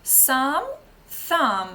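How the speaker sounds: "Сам" then "thumb", loud, s against th; pronunciation drill. Shown as a demonstration. Teacher drills sum against thumb, loud. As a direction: say the pair loudly for the class to copy. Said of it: "Повторіть".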